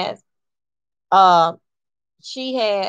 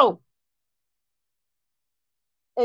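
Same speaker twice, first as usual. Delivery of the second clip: retold shout; 7 semitones higher, 5 dB quieter than usual. Shouting at the girl in towel.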